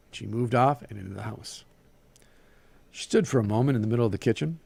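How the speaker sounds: animated story reading with Southern dialogue; story narration. A narrator's reading. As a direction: read the tale aloud, giving each figure life.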